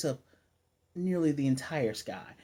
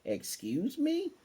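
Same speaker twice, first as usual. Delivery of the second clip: slow, much higher mock-offended squeak; indignant; 13 semitones higher, 3 dB quieter, much slower than usual. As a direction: stretch it out in high disbelief. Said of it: "and he gets mad".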